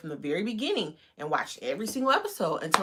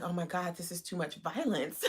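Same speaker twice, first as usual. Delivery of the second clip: laughing; 6 dB quieter than usual. Retold or imitated. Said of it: "I was just like".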